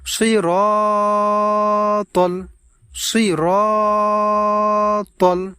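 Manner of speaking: সিরাতাল with short সি and তল, not রা or তাল; correct pronunciation. Shown as a demonstration. Teacher correcting a common mistake for viewers. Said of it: "এখানে আমাদেরকে পড়তে হবে".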